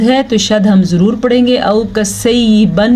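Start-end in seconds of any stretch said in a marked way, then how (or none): 1.6-2.9 औ कसैयिबन with the doubled y blurred; wrong reading demo. Shown as a demonstration. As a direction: say औ कसैयिबन quickly, unclear y. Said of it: "नहीं पढ़ना".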